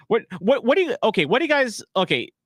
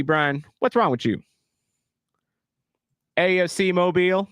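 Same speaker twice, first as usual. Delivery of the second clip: redneck voice. Acted. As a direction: lay on a thick redneck twang. Streamer holds redneck commentator voice.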